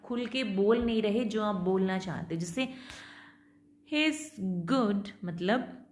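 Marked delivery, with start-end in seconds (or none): 3.9-5.1 slow, hesitant, rising at the end; reserved fall-rise. Shown as a demonstration. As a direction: hold back, leaving it hanging. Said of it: "reservation दिख रहा है". (झिझकती fall-rise tone)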